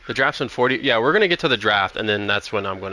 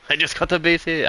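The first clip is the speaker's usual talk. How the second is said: accidental East Asian accent; 4 semitones higher than usual. Real, not acted. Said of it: "why did you sound Asian?".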